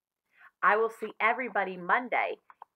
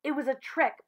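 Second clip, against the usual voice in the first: panting; 5 semitones higher than usual. Acted. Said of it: "panted Billy".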